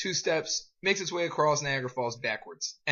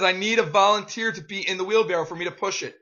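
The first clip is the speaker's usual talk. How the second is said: louder repeated request; 4 semitones higher, 5 dB louder than usual. Acted. Repeats unanswered call.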